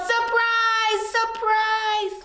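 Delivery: high excited cheer; yelled surprise. Acted. Friends shouting surprise at Blue, excited cheer. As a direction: shout it like a party. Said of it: "Everyone yelled".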